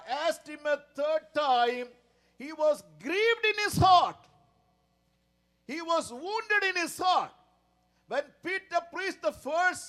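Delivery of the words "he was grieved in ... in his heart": preaching shout. Real, not acted. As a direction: proclaim it hard from the pulpit. Preacher cries out the point.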